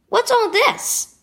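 slow, rising puzzled question. A narrator's reading. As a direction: ask slowly, puzzled. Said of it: "Devin asked".

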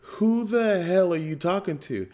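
high-pitched, incredulous retelling; baffled disbelief. Retold or imitated. Dad reacting to son talking to nobody, baffled. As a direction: act out being freaked by the kid.

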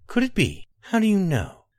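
rising, eager questions; breathless with wonder; excited wonder. Acted.

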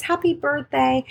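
high, sing-out birthday wish; retold cheery greeting. Nurse calling a patient on her birthday, acted cheery.

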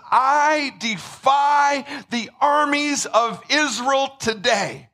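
slow, drawn-out mock taunt; a hammed-up giant calling across the valley; giant's taunt. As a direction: dare them slowly like a mocking giant.

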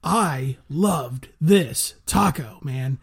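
slow, drawn-out announcer hype; game show host. Acted. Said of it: "You sounded like a game show host".

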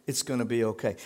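low, understated movie-style comfort; mock reassurance. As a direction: imitate a soothing film character. Imitates movie character offering comfort.

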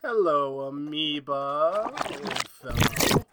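slow, tender greeting to a monster; creepy fond coo. Acted. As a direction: drawl it like greeting a pet. Doc greets the monster fondly.

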